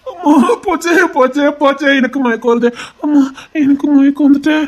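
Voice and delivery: hammed-up swooning wail; mock fainting. Man fakes fainting, hamming it up. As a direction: ham up the faint.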